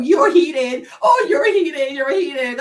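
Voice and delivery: loud mimicked taunt; parroting the commenters in mockery; mocking taunt.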